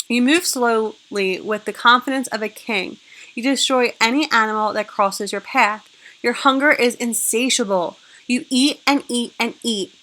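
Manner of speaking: put-on loud, punchy storytelling for kids; dramatic read-aloud.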